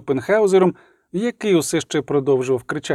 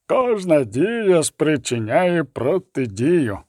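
slow, measured elf voice; each word weighed slowly; much slower than usual. Acted. Elf to Pilgrim, slow and deliberate.

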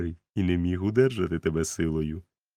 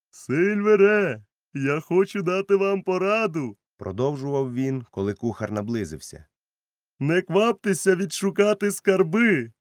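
much higher, louder doctor calling; doctor's voice raised; 10 semitones higher, 5 dB louder than usual. A narrator's reading. Doctor urges Silver, much higher and louder. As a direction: call the cook over firmly.

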